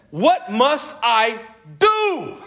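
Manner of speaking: drawn-out, slow plea; slow begging jailer; slow pleading question. Acted. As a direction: stretch each word out. Jailer asks again, slowed.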